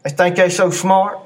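jaw clenched, resentful words; through gritted teeth. Shown as a demonstration. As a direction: grumble it with teeth shut. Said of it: "Talking through our teeth".

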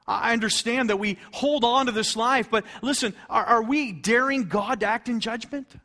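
high, insistent pulpit challenge; urgent preaching. Real, not acted. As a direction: plead and challenge the congregation.

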